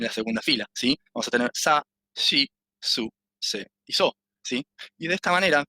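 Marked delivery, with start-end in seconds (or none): 1.5-4.1 "sa, shi, su, se y so" as separate syllables; syllable row demo. Shown as a demonstration. Teacher showing the second row's variation, "sa, shi, su, se y so" syllable by syllable. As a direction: model "sa, shi, su, se y so", with "shi" as a sh sound. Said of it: "solo alguna variación en el segu".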